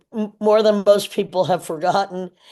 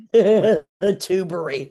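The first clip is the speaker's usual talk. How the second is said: laughing; much slower than usual. Real, not acted. Repeats own joke, laughing.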